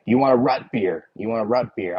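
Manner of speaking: rut beer with a short uh vowel; imitated local accent. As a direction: quote a local saying rut for root. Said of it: "that's an accent here".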